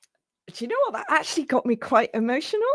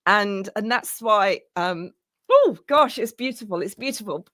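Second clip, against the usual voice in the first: emotional. Real, not acted. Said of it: "you can hear the emotion in my voice".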